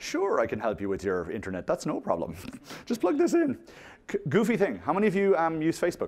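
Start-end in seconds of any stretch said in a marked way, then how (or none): 0.0-3.6 acted Irish accent, rising and falling. Giving a talk to an audience, imitating an Irish person, Irish accent. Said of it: "Irish people going".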